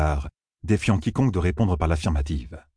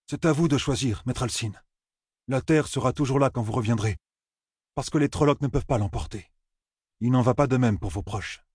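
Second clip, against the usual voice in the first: slightly softened, higher-pitched persuasion; Perrine, persuading; 5 semitones higher than usual. Acted. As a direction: gently press the farmer to choose.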